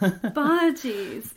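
"Bargies" with a long open ah; English pronunciation. Shown as a demonstration. Repeats her English version.

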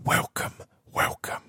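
hushed secret whisper. Real, not acted. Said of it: "And I'm whispering".

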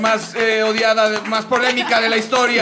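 hype announcer. Pretend. Mock introduction of the finalists.

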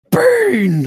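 high, loud, drawn-out yelp; over-excited Ron. Retold or imitated. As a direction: shout it in mock overexcitement. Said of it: "He gets all excited".

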